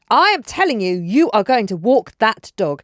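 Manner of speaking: loud, slowed stern command; a mother ordering her daughter to walk the dog; firm order. Retold or imitated. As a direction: lay down the law, word by word.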